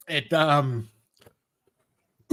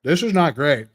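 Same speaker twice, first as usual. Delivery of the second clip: talking with a burning mouth; burned tongue; 2 semitones lower, 4 dB louder than usual. Real, not acted. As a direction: speak through hot sauce pain. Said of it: "my tongue is on fire".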